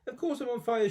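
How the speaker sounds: put-on high, cross old woman yell; grandma yelling at George while on fire. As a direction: snap it back at the boy. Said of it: "she yelled".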